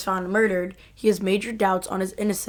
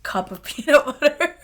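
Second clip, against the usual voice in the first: mouth full. Real, not acted. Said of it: "my mouth is gonna be like".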